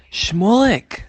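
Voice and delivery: high, loud cry of the name; rebbe yelling. Acted. The Baal Shem Tov spots Shmulek in the crowd, yelling. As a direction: call him out in a sudden high shout. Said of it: "Why did the Baal Shem Tov yell at him?".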